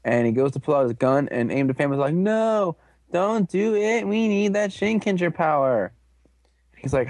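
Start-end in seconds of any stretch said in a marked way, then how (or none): 2.1-5.9 high, urgent mock plea; hammed-up protest in a high voice; mock pleading. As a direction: beg them to stop, pitched way up. Pleading to stop a shot.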